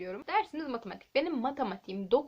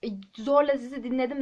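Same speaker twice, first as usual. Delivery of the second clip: louder insistent complaint to the teacher; student protesting an unfair grade to the teacher, louder; retold protest; 7 dB louder than usual. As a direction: argue for your grade with rising force.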